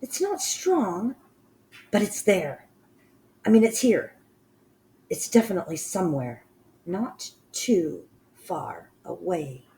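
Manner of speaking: high, screechy witch voice, sniffing eagerly; a lightly voiced witch hunting a scent. Witch insisting to the others, high and eager.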